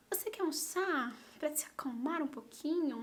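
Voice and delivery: soft, half-whispered caring offer; gentle kindness. Retold or imitated. Secretary offering tea to a crying student, gentle whisper. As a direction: imitate a sweet, soothing secretary. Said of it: "elas eram muito fofas".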